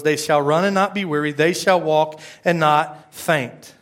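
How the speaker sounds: slow, deliberate Bible recitation; measured pulpit reading; scripture reading. A narrator's reading. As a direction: read out the verse with drawn-out key words. Reads scripture aloud to congregation.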